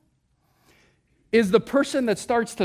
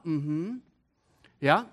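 affirming hum; 8 semitones lower, 7 dB quieter than usual. Shown as a demonstration. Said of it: "affirming sound".

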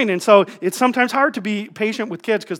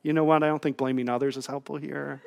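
lower, soft retold comeback; mock-reasonable deflection; 5 semitones lower, 10 dB quieter than usual. Husband dodging wife's blame, mock-reasonable deflection. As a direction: drop to a quiet, would-be reasonable tone.

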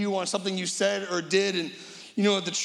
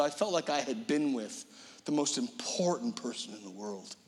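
soft and lower, fading into a whisper on the most important person in the world; awed whisper; 6 semitones lower, 6 dB quieter than usual. Retold or imitated. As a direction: hush it like a cherished secret. Retired teacher recalls PM visit.

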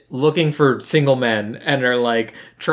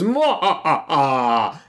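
imitated wail; slower than usual. Imitates a noise from the film.

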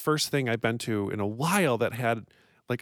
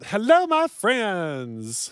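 letter reading voice; 5 semitones higher, 3 dB louder, much slower than usual. Acted.

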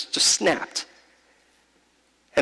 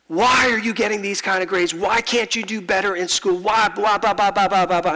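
mock dad scolding; 3 semitones higher than usual. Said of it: "rattling off the same script".

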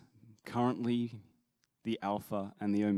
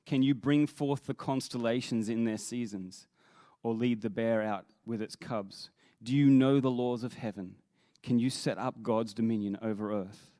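firm, louder challenge from God to Job; challenging; 4 dB louder than usual. Acted. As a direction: fire off each question as a challenge. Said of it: "he challenged him and said".

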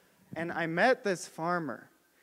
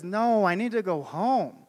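exasperated. Retold or imitated. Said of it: "He's exasperated".

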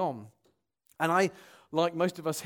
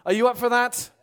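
louder, higher call to the congregation; rallying the crowd; 5 semitones higher, 7 dB louder than usual. Real, not acted. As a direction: call out a challenge to the room. Rallying the congregation, first take.

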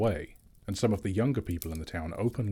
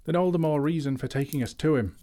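high, loud and impatient; bursting in, fed up with waiting; impatient outburst; 8 semitones higher, 5 dB louder than usual. A narrator's reading. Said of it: "burst in Feely".

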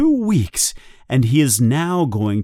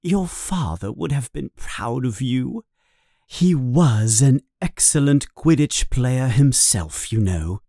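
warm smile. Acted. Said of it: "Then she suddenly smiles".

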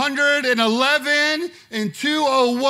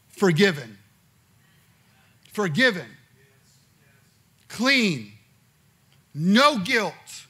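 God's forgiving voice; 4 semitones higher, 6 dB louder, slower than usual. Acted.

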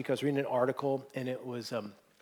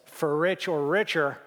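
smirking. Retold or imitated. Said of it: "he kinda smirks".

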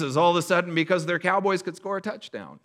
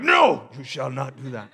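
mock decree; 5 semitones lower than usual. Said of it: "I'm like".

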